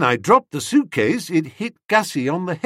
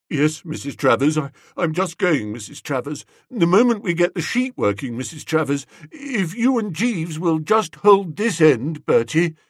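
apologetic. Acted. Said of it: "his manner was apologetic and conciliatory".

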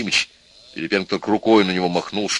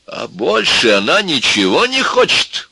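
loud, high, drawn-out outburst; exploding in anger; 8 semitones higher, 5 dB louder than usual. A narrator's reading. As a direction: blow up in sarcastic fury. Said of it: "взорвался Максимыч".

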